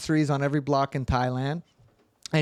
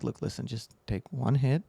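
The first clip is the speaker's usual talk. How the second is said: cautioning a friend; 2 semitones lower, 5 dB quieter than usual. Retold or imitated. Retold careful advice to friend.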